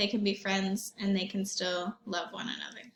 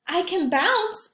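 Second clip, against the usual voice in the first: Ball boasting; 7 semitones higher, 4 dB louder than usual. Acted. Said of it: "said Ball".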